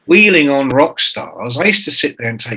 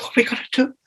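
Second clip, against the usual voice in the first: mock panic; 11 semitones higher, 5 dB quieter, much faster than usual. Panicked question to producer.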